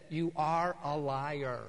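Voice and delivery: slow, low, gentle telling-off; mildly tender, measured reproof; loving rebuke. Retold or imitated. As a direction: break it to them lovingly, slowly. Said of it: "I very lovingly said".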